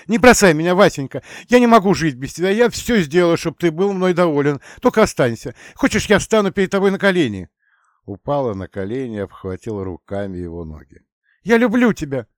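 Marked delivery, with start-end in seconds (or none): 0.1-7.5 high, loud, fast wailing plea; piercing sobbing plea. Acted. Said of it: "пронзительно зарыдала". 11.4-12.3 high, loud cry of love; desperate declaration. Acted. Emilia clinging to him.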